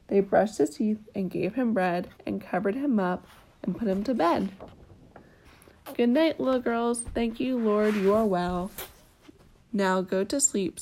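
gentle bedtime story reading; storybook narration with small lilts; reading to a child. A narrator's reading. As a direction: read it like a picture book at bedtime. Reading a picture book aloud.

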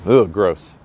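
disgusted groan at own words; annoyed ugh. Real, not acted. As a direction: spit out ugh, gross. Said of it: "disgust at own words".

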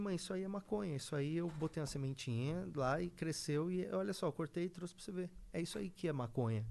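soft, patient explaining to mom; calm her down softly; gentle reassuring. Retold or imitated. Son gently explaining to his mother.

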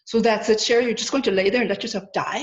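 big booming voice, loud and fast. Retold or imitated. Booming spirit voice challenging her on the bed. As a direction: boom it out like a voice from above. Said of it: "this big booming voice goes".

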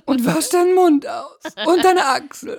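very high, prissy scolding voice; prim scolding lady. Pretend. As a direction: scold like a fussy old lady. Mock prude scolding.

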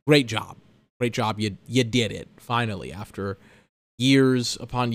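dry, low, mock congratulation; sarcastic praise. Real, not acted.

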